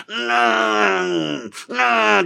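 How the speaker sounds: high, strained pedaling noise; straining hum. Acted. Rider fleeing on a velocipede, comic straining hum. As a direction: hum with effort as if pumping pedals.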